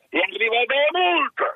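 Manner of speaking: high, slow, indignant outburst; excited exclamation. Retold or imitated. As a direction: cry out the punchline. Punchline of the fine story. (esclamazione concitata)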